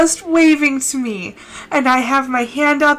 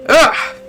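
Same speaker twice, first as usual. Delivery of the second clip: short teary ugh; exasperated groan at own tears; tearful groan; 2 semitones higher than usual. Real, not acted. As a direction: groan while crying for real. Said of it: "Ugly crying".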